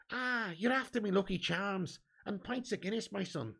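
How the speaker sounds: a light stage-Irish lilt; lightly put-on Irish brogue, teasing; mock Irish accent. Answering a viewer's jibe with a mock Irish accent. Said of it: "that butchered Irish accent".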